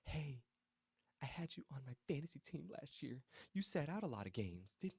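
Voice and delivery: a lightly voiced starstruck officer; officer asks about fantasy stats, mock chirpy; chatty officer. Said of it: "she said before they left".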